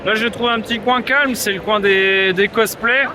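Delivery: worn-out hoarse voice; hoarse from yelling. Real, not acted. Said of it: "j'ai la voix défoncée".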